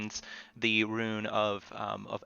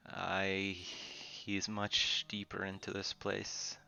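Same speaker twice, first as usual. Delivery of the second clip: ominous sword voice; 9 dB quieter than usual. Acted. Sword spirit speaks.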